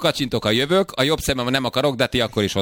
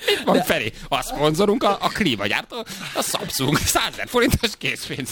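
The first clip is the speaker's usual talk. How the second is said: hammed-up quizmaster barely holding back laughter; mock game-show host; 3 semitones higher than usual. Mock host prompting Feri for the sponsor's prize, hammed-up game-show delivery. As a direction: play the host prompting a contestant, lifting the final questions high.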